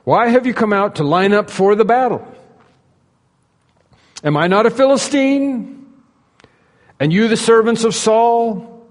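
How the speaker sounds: high, ringing taunt read aloud; giant crying out. Retold or imitated. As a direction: call it across a valley to an enemy army. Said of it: "he stood and cried out".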